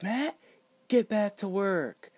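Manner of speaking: high, snapping teacher voice; mock stern teacher. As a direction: bark it like a cross teacher. Teacher scolding Matt in class.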